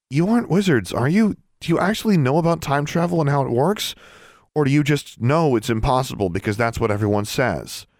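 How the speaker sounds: high-pitched challenging questions; argumentative, persistent. A narrator's reading. Alexandra persists against the flinching elves, argumentative. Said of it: "but she persisted".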